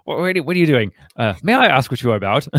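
flipping out. Acted. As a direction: demand an explanation, hammed-up indignation. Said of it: "he flips out and he's like".

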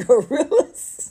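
high, loud drawn-out gorillas; playful stretched gorillas. Acted. Joking on the rapper's name, drawn-out high call.

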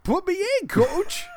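put-on high, squeaky old miner voice; old prospector. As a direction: play a grizzled old gold miner. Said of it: "Sound like an old prospect".

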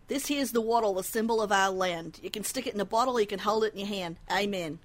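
a light Australian accent, reciting; a lightly done Australian accent reciting a verse. Shown as a demonstration. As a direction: recite it like an Aussie bloke. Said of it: "this is a quote from an old Monty Python skit".

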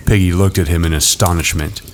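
ordinary delivery

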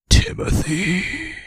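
name drawn out slowly and loud; eerie slow sleep-talk. Retold or imitated. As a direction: say it wide-eyed, possessed. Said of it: "He said".

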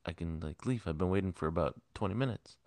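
loud, fed-up complaint at the manager; man yelling at a coffee-shop manager, exasperated; exasperated shout. Retold or imitated. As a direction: blurt it out, done with waiting.

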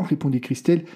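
usual speaking voice

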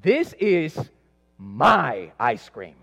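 put-on small boy scolding his mom over his ice cream; possessed kid protest. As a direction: play the kid defending his ice cream, going shrill with indignation. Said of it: "obviously I got kind of possessed".

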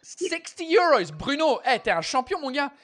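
real burst of thanks for a big gift; thrilled about donation. Real, not acted.

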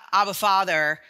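mock demanding plea, pushing for your own way; a forceful protesting appeal; demanding cry.

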